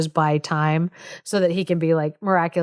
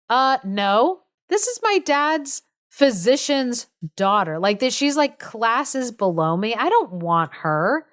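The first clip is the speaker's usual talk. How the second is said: higher, put-upon refusal at the start; mock indignation; 4 semitones higher than usual. Nobleman refusing the physician's daughter, mock indignation. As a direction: balk like an offended young noble. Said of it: "pitches a fit".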